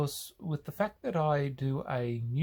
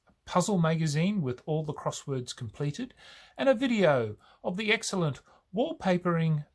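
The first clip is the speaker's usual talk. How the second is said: officious recital with lively rises in pitch; Rimmer; 4 semitones higher, 3 dB louder than usual. Acted. Rimmer answering Crichton's demand for leisure facilities, officious. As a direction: read out the list like a pompous official. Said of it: "Rimmer's response is".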